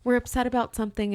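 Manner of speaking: high, placating agent tone; acted over-polite phone manner; polite customer-service voice. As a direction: soothe an upset caller sweetly. Acting polite agent to caller.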